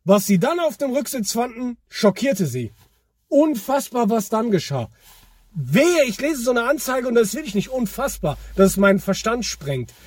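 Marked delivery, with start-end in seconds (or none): 0.0-4.9 clickbait video narrator. Retold or imitated. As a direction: sell the shock like clickbait. Parodying clickbait headlines.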